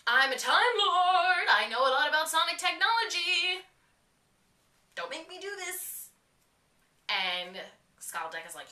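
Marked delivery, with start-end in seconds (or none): 0.1-6.1 commanding Doctor. Acted. Doctor threatening Skaldeck with his sonic, grand commanding voice. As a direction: boom out the Doctor's threat, then drop to a warning.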